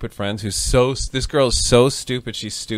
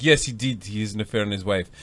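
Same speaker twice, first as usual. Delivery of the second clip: put-on French-accented matter-of-fact confirmation; 4 semitones lower, 5 dB quieter than usual. French wife confirming her husband's affair to a guest, French accent. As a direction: tell on him in a French accent. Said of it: "That's my French story".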